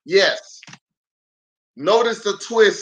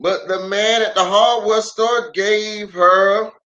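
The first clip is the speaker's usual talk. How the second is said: storybook read-aloud with lively swings; reading to children; 3 semitones higher than usual. Acted. Pastor reading a picture book aloud to kids online.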